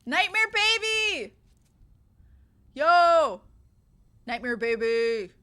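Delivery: loud slow high call-out; excited call. Real, not acted. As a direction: greet it with delight. Excited greeting of in-game item.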